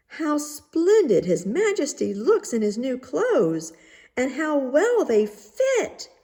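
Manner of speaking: fawning crowd flattering the king; admiring cry. A narrator's reading. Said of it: "everyone cried out".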